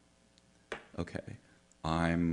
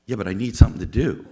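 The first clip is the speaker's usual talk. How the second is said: insistent; 3 semitones higher, 13 dB louder, faster than usual. Retold or imitated. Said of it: "He goes".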